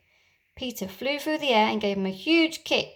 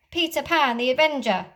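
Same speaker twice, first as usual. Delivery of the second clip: higher, louder proud declaration; heroic announcement; 4 semitones higher, 5 dB louder than usual. Acted. Peter revealing himself to the pirates, proud and loud. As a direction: proclaim it like a hero.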